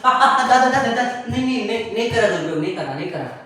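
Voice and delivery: high, sing-song panicky no no; frightened promising. Acted. Grandson promises grandpa he won't misuse it, high panicked pleading. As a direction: promise quickly in a scared whine. Boy scared after grandpa's threat.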